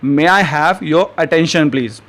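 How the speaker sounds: very slow, each word spaced out for learners; slow teaching model. Shown as a demonstration. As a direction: say it slowly and clearly like a teacher modeling a phrase. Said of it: "तो English में आप क्या कहेंगे".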